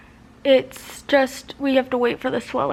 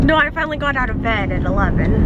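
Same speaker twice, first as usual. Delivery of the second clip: talking through swollen cheeks; mouth full; 3 dB louder than usual. Real, not acted. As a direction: speak as if cheeks are stuffed. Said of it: "I look even more like I'm talking with my mouth full today".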